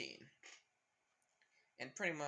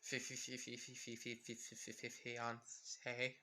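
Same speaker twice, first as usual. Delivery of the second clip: stuck stammering on fi, fading much softer, very slow at the end; shocked stammer; 3 semitones lower, 9 dB quieter than usual. Retold or imitated. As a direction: choke on the word in disbelief, trailing away. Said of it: "Mineta saying".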